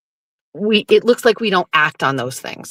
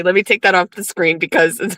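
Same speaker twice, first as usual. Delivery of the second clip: usual speaking voice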